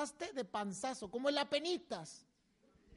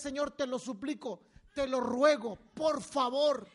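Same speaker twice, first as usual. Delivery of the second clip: pleading tone; 5 dB louder than usual. Shown as a demonstration. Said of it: "una actitud de súplica".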